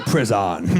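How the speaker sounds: mimicked "Prison" as priz-AHN; odd pronunciation. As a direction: quote "Prison" with an open "ahn" second syllable. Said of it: "She said".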